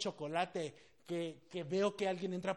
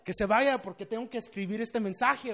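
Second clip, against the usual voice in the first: high-pitched comic exasperation; frustrated; 6 semitones higher, 6 dB louder than usual. Retold or imitated. Pastor inwardly wishing the girl away, comically frustrated. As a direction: vent in hammed-up frustration, half laughing. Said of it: "Ya estaba frustrado".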